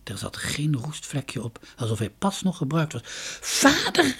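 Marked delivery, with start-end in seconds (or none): 3.4-4.2 a high, loud call for father. A narrator's reading. Dunja calls for her missing father, high loud call. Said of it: "riep ze".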